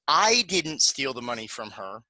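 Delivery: I didn't steal the money from her with I stressed. Shown as a demonstration. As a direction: lean on the word I. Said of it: "we're gonna say it with a particular intonation".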